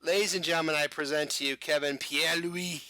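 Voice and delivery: hammed-up bad French accent, grand announcer intro; a mock-pompous French accent, half laughing at the end; terrible French accent. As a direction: present him like a cheesy French emcee, in a bad French accent. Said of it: "so that I could do my terrible French accent".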